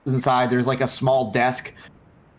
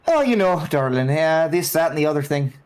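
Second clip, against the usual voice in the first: put-on Irish accent; 3 semitones higher than usual. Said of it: "I don't know why she went Irish".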